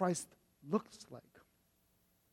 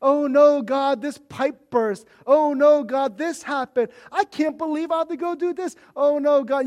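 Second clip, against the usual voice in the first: louder mock-whiny "oh no" prayer; bratty whining; 3 semitones higher, 5 dB louder than usual. Pastor mimicking his bratty prayers about a burst pipe, whining. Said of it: "kinda bratty".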